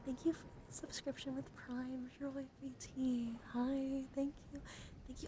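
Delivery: high, sweet, sing-song greeting; delighted thanks. Real, not acted. Streamer thanking a Prime subscriber, delighted.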